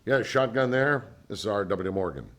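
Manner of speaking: imitating the friend's booming phone voice; R W Morgan. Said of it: "and he goes".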